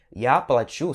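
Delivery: плачу as pla-CHU, final syllable stressed. Shown as a demonstration. Teacher explains "I will pay", stressed U in плачу. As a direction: land on the U of плачу. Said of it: "já vai significar outra coisa".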